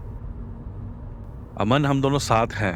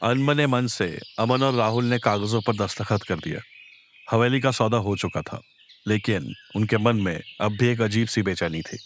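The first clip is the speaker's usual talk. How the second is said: story narration. A narrator's reading.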